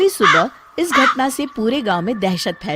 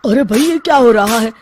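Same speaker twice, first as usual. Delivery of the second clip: higher, louder startled concern; alarmed surprise; 4 semitones higher, 3 dB louder than usual. Acted. Villager startled to see the zamindar slapping himself. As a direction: react in shock at the strange sight.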